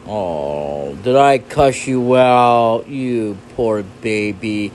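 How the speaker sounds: slow, low fake sympathy; mock pity. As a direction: drag it out as if pitying a baby.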